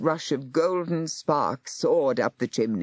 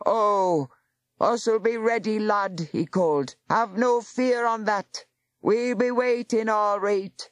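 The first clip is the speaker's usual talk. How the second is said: defiant call; 6 semitones higher than usual. A narrator's reading. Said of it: "a defiant shout".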